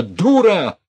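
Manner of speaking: loud, high, enraged yelling; full-throated angry outburst; furious shout. A narrator's reading. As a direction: scream insults at her. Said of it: "он закричал неприлично".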